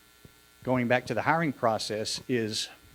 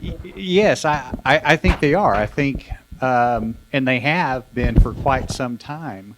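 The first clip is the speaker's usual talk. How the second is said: talking into sleeve; 6 dB louder, slower than usual. Real, not acted. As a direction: close muffled mic into a shirt. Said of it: "speak into my shirt".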